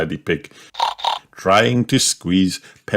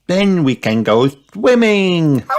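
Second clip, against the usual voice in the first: put-on high, swooping little-kid voice; high, eager piglet anticipation; excited children; 10 semitones higher, 3 dB louder than usual. A narrator's reading. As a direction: say it with rising glee. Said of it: "cheered Peppa and George".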